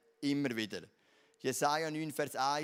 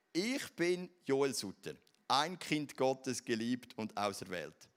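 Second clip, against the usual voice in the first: recited declaration; slower than usual. Acted. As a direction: declare it over yourself, weighting each phrase. Recites morning declaration in High German.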